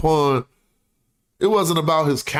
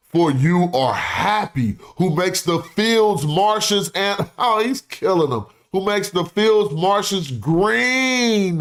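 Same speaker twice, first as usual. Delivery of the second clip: dramatic orator reading. Acted. Reads ancient plea aloud.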